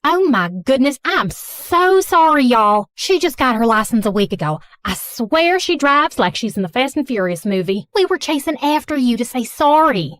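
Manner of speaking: put-on lightly done Southern mom accent, gushing apology; a hint of a fussy Southern mother. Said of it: "speaking in a thick Southern accent".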